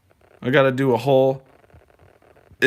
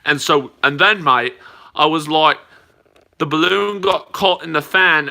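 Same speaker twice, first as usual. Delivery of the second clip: hammed-up Aussie storyteller; Australian accent. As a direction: recount it like a chatty Aussie. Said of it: "That accent".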